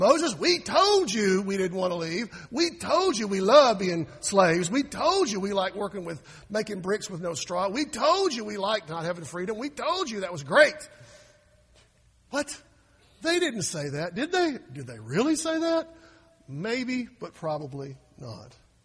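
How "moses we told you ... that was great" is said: loud, scolding told-you-so tone, rubbing it in. Retelling how the people complained to Moses: imitating an I-told-you-so complaint. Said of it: "what I call the "I told you so" card".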